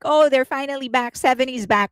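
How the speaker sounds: mock excited scream. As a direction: mimic a happy cheer, without really screaming. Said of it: "screamed like".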